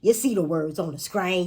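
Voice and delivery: twangy, teasing delivery; playful twang. Shown as a demonstration. Playful twang demo, first take.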